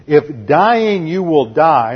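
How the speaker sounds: slow, deliberate If dying you will die; slow quoted phrase. Shown as a demonstration. Teacher quoting the disputed phrase slowly. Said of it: "the way that's normally handled".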